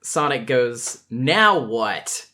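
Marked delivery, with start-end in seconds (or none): 1.1-2.3 curt, short. Retold or imitated. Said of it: "really short".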